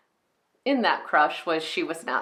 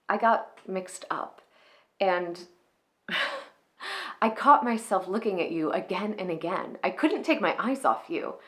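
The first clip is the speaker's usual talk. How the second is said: Clara's apologetic confession. Acted. Clara admitting her old crush to Mister Kralik, apologetic. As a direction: confess an old crush, hesitant, with small rises of exasperation. Performs a film monologue as Clara Novak.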